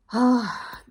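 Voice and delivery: shaky sigh holding back tears; emotional sigh. Real, not acted. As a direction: let out a teary sigh. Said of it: "getting me all teary-eyed".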